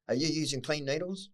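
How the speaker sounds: a hint of a kind woman's voice; lightly voiced concerned lady. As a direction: ask like a worried neighbour. Voicing lady asking concerned question.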